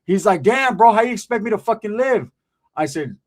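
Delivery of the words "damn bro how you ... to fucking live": mock protest. Friend protests in retold story.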